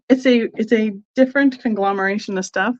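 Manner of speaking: stumbling over words; stuttering. Real, not acted. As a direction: repeat the start, stuttering. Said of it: "I am stuttering a little bit".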